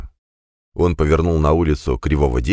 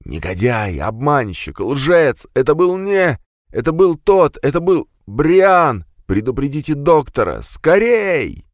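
gasping, straining to get words out; forcing words out with great effort; straining dying voice; 8 semitones higher, slower than usual. Acted. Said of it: "с видимым усилием попытался говорить".

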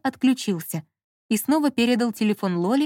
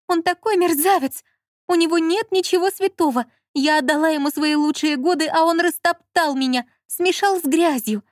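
high-pitched, distressed outpouring; hammed-up complaint about a cruel husband; tearful wronged wife; 7 semitones higher, 3 dB louder than usual. A narrator's reading. Lola posing as a betrayed wife, tearful. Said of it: "Лола всхлипнула".

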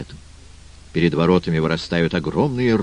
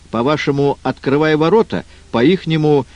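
water spirit voice; 7 semitones higher than usual. Acted. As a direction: play the crafty water king. Водяной explains crab language, same voice.

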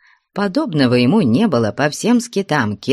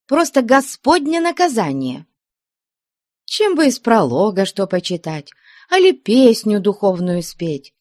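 higher, scolding cellaress; fussing old nun; 6 semitones higher than usual. Acted. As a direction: grumble and nag like a kindly nun. Nun Veryneya scolds girls.

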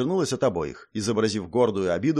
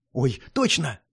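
startled squeak. A narrator's reading. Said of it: "испуганно ... тонко ойкнула".

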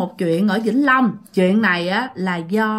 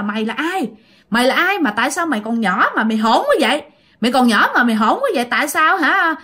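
retold telling-off, rising and a touch faster toward the end; mock scolding back; 3 semitones higher than usual. Woman scolding back at the rude ghost child. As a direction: scold the rude kid, half in earnest. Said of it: "cái bạn mới chửi lại".

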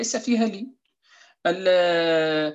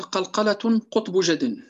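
slow chanted line of the poem; reciting the verse; slower than usual. Shown as a demonstration. Teacher recites the poem's verse slowly to students. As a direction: recite "قلقلة قطب جد" slowly, like a memorized verse. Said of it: "قال".

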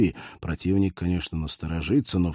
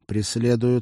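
half robot voice; 4 semitones higher than usual. Acted. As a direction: speak like a cyborg through a comm. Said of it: "делал голос киборга ещё более синтетическим".

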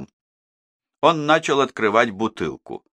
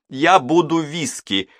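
higher, firm announcement; warning; 8 semitones higher than usual. A narrator's reading. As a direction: stress on Я, set the terms. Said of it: "предупредила Мадлен". (с ударением на «Я», твёрдо)

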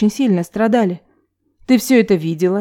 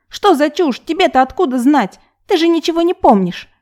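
sarcastic; 8 semitones higher than usual. A narrator's reading. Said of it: "язвительные нотки".

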